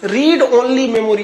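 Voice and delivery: रीड ओनली मेमोरी said slowly, each word set apart; teacher slowly repeating रीड ओनली मेमोरी; slow, spelled out. Shown as a demonstration. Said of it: "एकदम fix रहता है रोम".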